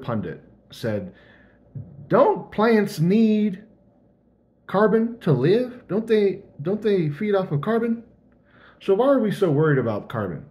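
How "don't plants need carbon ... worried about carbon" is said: southern hick voice. Retold or imitated. Mocking a conservative TV pundit in a hammed-up Southern hick accent. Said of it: "Sorry for my southern hick voice".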